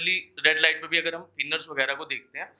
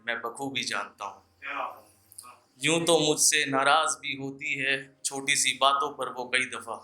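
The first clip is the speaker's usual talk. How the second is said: measured, lingering poetic delivery with repeated lines; shayari recitation; 3 semitones lower than usual. Acted. Poet reciting love shayari to an audience, measured and lingering.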